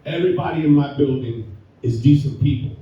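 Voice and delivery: speaking with a numb, swollen mouth. Real, not acted. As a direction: talk like just back from the dentist. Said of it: "if I sound kind of funny, it's because I went to the dentist".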